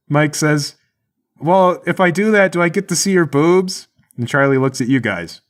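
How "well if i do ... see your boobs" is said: high, raised bargaining voice; hopeful call back. Acted. Mike bargaining from down the hall, hopeful calling out. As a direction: holler a hopeful question.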